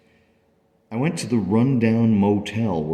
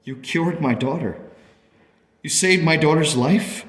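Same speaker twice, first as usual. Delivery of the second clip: higher, amazed realisation; awed disbelief; 8 semitones higher than usual. Acted. Parent realising Edgar saved the daughter, awed. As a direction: let it dawn, ending in a question.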